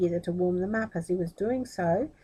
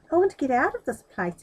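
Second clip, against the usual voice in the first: loud, higher desperate exclamation; trapped boy crying out his wish; exclaimed; 6 semitones higher, 6 dB louder than usual. A narrator's reading. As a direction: burst out with the wish. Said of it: "exclaimed Aladdin".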